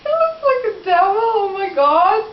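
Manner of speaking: fast, teary laughing words; laughing at a devilish drawing; giggling. Real, not acted. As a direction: rush it out laughing.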